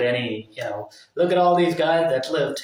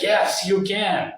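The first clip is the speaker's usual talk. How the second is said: higher, slow, firm encouragement; ex-girlfriend pushing him on; 6 semitones higher, slower than usual. Retold or imitated. Ex-girlfriend urging him up the mountain, slow firm encouragement. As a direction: insist slowly that he can do it. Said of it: "She was like".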